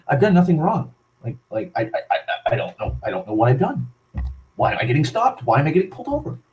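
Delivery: stammering, rising questions in mock panic; a flustered, stuttering imitation of an innocent driver; imitating a panicked driver. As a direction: sound lost and scared as a driver pulled over. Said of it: "They just immediately think".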